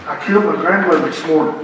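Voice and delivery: softened, lightly confidential aside; imitated whisper. President greeting the next guest, mildly hushed. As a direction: drop it in under the handshake. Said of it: "he whispers".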